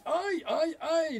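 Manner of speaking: high, loud yelps; cried out in pain. A narrator's reading. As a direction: yelp as each blow lands. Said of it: "Mamelon se crie".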